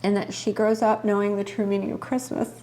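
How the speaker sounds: choked-up whisper; holding back tears; emotional whisper. Real, not acted. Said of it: "why I'm emotional right now".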